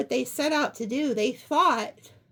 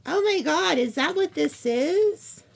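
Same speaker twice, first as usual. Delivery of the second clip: higher, louder burst of discovery; excited realization; 4 semitones higher, 3 dB louder than usual. Real, not acted. Reader realizing the card's meaning, excited. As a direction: suddenly piece it together out loud.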